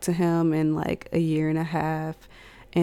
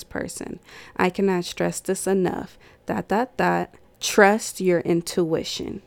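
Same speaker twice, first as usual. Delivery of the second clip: embarrassed diary reading. Real, not acted. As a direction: read the entry out with feeling. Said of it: "I'm gonna read y'all a diary entry".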